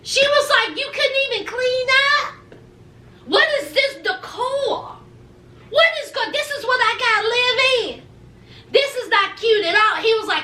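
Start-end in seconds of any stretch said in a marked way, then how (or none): 0.8-10.0 higher, fussy complaining wife; lightly voiced wife griping. Wife griping about the apartment, lightly raised complaining voice.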